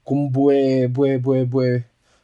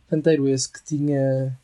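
ordinary delivery

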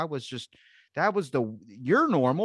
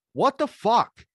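high startled yell of disbelief; loud retold what the fuck; shocked outburst; 9 semitones higher, 7 dB louder, much slower than usual. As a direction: blurt it out like you just got hit. Retold getting hit by car.

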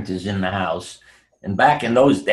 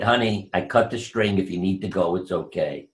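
a touch of tender husband, softer at the end; gentle release; 4 semitones lower, 4 dB quieter than usual. Retold or imitated. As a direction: ease her gently, lightly voiced. Husband gently releasing his wife.

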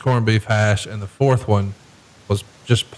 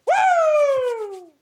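whoop. Acted. End of hammed-up husband bit.

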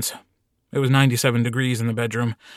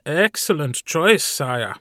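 high eager little servant; bright, eager assistant; eager servant Carl; 4 semitones higher, slower than usual. Acted. Carl approves.

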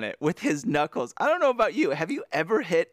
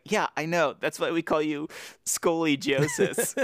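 laughing tease; 4 semitones higher than usual. Pretend. Imitating Frank teasing.

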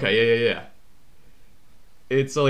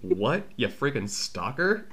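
slow, softer imitation of a put-off star; mock disbelief; 6 dB quieter, slower than usual. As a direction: act out a wary, drawn-out rebuff. Imagined star rebuffing an awkward fan.

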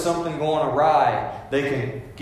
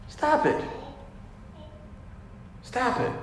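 sharp rebuke; 10 semitones higher, 10 dB quieter than usual. Real, not acted. Preacher rebukes jealousy.

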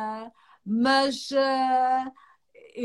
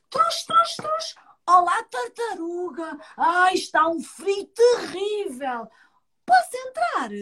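deer voice; 6 semitones higher, slower than usual. Acted.

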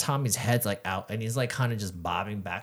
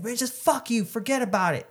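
high-pitched mock exasperation; mad, retold; 11 semitones higher than usual. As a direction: imitate a fed-up driver giving up. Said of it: "he got mad".

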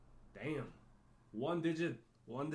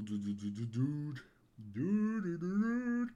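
building hype; 4 dB louder, much slower than usual. Pretend. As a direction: build the dudes up to a yell.

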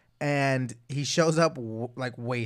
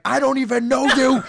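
put-on higher, louder drunk denial, laughing; drunk friend; 10 semitones higher, 9 dB louder than usual. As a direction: deny your friend loudly, drunk. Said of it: "He's like".

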